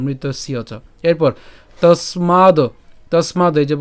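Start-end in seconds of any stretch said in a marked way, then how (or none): 0.1-0.7 মৃতস্য চ run together as one; joined pronunciation. Shown as a demonstration. Teacher joining মৃতস্য চ for students. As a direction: blend মৃতস্য চ without a break. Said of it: "একসাথে আমরা উচ্চারণ করবো".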